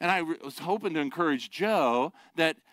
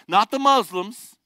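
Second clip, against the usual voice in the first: emphatic preaching; 7 semitones higher, 7 dB louder than usual. Acted. Preacher drives contrast home.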